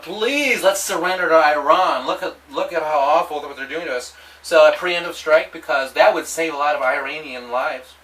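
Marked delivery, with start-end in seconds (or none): 0.0-4.1 high, loud mock plea for surrender; a citizen crying out to the president to give in; begging plea. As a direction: beg the president, pitched up. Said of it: "cry to President Obama".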